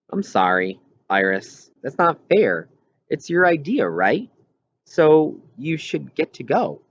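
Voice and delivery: a lightly voiced kid friend taking her side; sympathetic friend Wendell. A narrator's reading.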